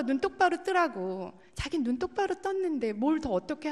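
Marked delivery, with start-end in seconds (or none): 0.0-1.3 retold yell. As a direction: re-enact a parent yelling at a child. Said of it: "막 소리를 지르는 저를". (아이를 혼내는 높고 큰 목소리)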